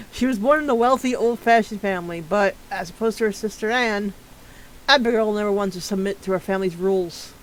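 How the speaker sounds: steady read-aloud of a bio; profile read. Acted. Streamer reading a character's profile to chat, steady and even. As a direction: read the character sheet evenly.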